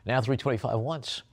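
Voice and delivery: auctioneer calling bids. Acted. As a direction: push for the next bid.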